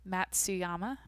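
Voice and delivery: hesitant "Matsuyama", softly rising like a question; sounding out. Real, not acted. Podcaster attempting a hard last name, sounding it out. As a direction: feel out "Matsuyama" carefully, unsure of it. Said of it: "I'm just trying to sound it out".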